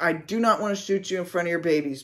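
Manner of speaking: quick plea in a near-normal voice; retold begging. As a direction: implore her rapidly without shouting. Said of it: "begging her".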